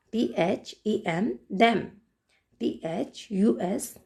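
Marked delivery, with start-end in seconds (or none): 1.6-1.8 "them" starting with a voiced द; short model of "them" with द. Shown as a demonstration. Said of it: "इन सब में से द का sound".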